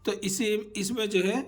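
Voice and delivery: ordinary talk, nothing marked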